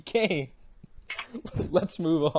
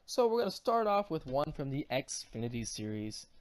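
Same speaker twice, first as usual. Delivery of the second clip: ordinary talk, nothing marked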